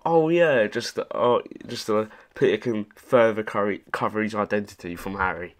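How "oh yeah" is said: mimicking game line. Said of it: "I love that little".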